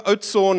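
Oudtshoorn the English way, ending in a plain "-orn"; English pronunciation. Retold or imitated. Son showing dad the mistake, anglicised Oudtshoorn. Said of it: "no one understands you".

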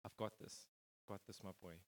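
God's gentle whisper to his son. Retold or imitated. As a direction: whisper it tenderly, like a father reassuring his boy. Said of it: "I just heard his gentle whisper".

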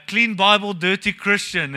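loud punchline. Acted. Joke line said loud.

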